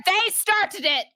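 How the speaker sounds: high, drawn-out protest; indignant accusation. Acted. Blaming the Duergar to the new arrival, indignant accusation. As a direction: accuse them, stretching each word high.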